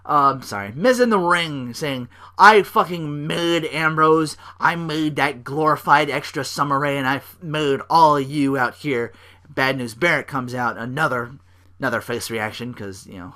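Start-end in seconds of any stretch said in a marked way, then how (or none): 2.4-9.1 loud, slow, cocky shout; arrogant boast. Retold or imitated. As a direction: bark it out like a smug heel. Miz quoted boasting.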